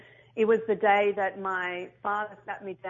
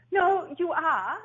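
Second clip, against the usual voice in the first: stern dad; 8 semitones higher, 4 dB louder, much slower than usual. Retold or imitated. Dad insists, voiced in story.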